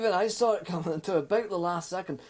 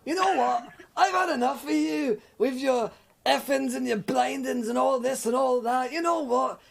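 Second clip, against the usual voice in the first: mock rant; 4 semitones higher than usual. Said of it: "He looks at her and is like".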